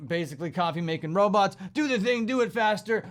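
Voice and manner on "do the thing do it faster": higher, pushy boss voice; mock corporate boss. Head office mocked as demanding speed, pushy and higher. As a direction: bark orders like head office.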